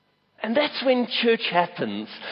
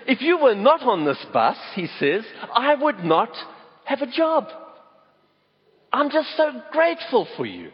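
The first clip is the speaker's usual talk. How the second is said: a touch of a preacher in a driver's quote; preaching bus driver; 6 semitones higher than usual. Retold or imitated. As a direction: let a grateful bus driver start to preach. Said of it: "it's like he's almost beginning to preach".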